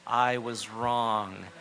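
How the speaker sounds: very slow apology; a husband's honest sorry; slow, sincere apology. Shown as a demonstration. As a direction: let each word of the apology land. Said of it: "the words I have to say".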